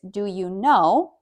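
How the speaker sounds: drawn-out teaching example; slow example. Shown as a demonstration. Teacher slowly models a question stem for learners. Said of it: "If you used".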